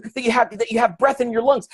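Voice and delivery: high-pitched imitated suggestion; eager audience answer. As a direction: pile on another answer, eagerly.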